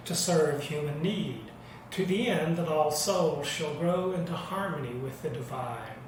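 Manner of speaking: steady, measured covenant recital; liturgical recital. Acted. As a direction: lead the congregation in the covenant.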